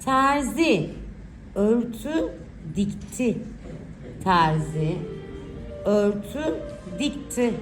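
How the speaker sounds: put-on slow, clear dictation for children; dictating. Shown as a demonstration. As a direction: read each word out slowly for writing. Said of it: "Okuyacağım cümleleri iyice dinleyin".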